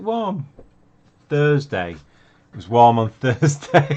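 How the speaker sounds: words bursting through very loud, swooping laughter. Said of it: "I'm laughing and laughing here".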